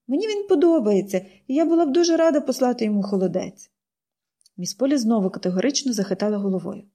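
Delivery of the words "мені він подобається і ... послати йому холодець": put-on higher, eager girl building her case; girl's voice rising as she pleads; girl pleading. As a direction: win the aunt over. Pollyanna explains.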